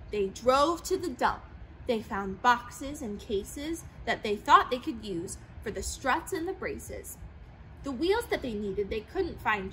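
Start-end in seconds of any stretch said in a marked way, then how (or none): none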